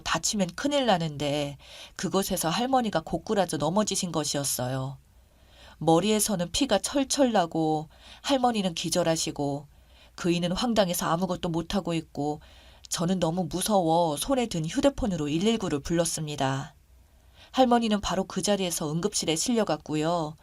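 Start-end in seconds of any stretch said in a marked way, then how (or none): none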